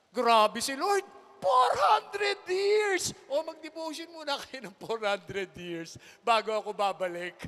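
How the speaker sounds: preacher shouting about four hundred years; fiery preaching. Acted. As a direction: thunder it at the congregation. Preaching at full force.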